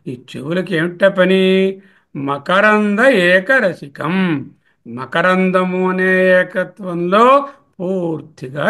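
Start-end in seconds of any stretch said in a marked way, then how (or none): 2.2-4.5 slow word split. Shown as a demonstration. Teacher splits the compound slowly.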